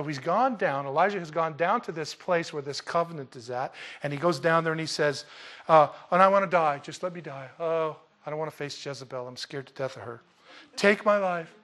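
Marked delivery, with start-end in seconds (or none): 6.1-11.5 mock despairing whine, fading to a mutter; whiny despair. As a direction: play Elijah as a scared, self-pitying complainer. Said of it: "can't you see the drama in this".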